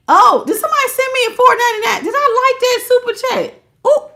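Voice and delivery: high, fast surprised excitement; suddenly thrilled, words tumbling out quickly; high and quick delight at a gift; excited. Real, not acted. Sudden excited superchat reaction.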